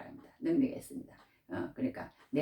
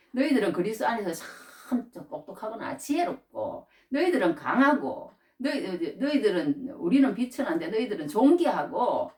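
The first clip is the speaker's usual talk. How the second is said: raised, mocking flattery; sarcastic praise; 5 semitones higher than usual. Paul needling the proud Corinthians with mock praise. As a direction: praise them so they feel the sting. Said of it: "괜히 비꼬듯이 그래요".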